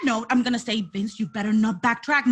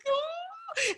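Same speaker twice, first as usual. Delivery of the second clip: touched ooh; 8 dB quieter than usual. Retold or imitated. Watching the kid, crying.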